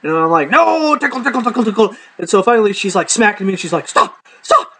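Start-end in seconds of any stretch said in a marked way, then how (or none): 0.5-1.9 high playful sing-song; teasing tickle voice. Retold or imitated. Boyfriend tickling girlfriend, teasing in a high voice. 3.9-4.7 high squealed plea; squealing stop. Retold or imitated. Tickled girlfriend shrieks at him to stop.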